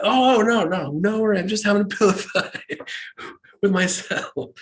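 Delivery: high-pitched, hammed-up excuse to the neighbors; comic high voice; mock reassurance. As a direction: play it up high, waving off a complaint. Acts out reassuring complaining neighbors.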